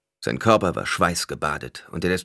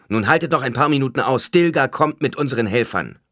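higher, louder rallying call; urging; 7 semitones higher, 6 dB louder than usual. A narrator's reading. Paul encourages the blinded men to wait for Stilgar, urging loudly. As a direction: urge them to hold out.

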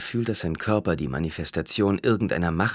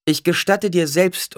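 slow, high, raised voice; stern retort; 12 semitones higher, 6 dB louder than usual. A narrator's reading. Alia retorts to the challenger, sternly. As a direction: answer him slowly and loudly.

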